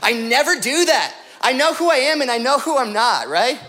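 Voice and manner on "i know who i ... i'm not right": normal talking voice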